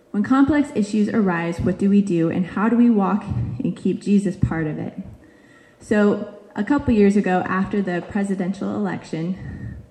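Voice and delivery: breathless, catching her breath; out of breath, speaking between breaths. Real, not acted. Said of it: "I'm catching my breath".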